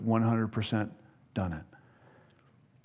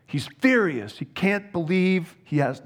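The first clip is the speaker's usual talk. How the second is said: acted rage; 4 semitones higher than usual. Preacher describing Naaman storming off.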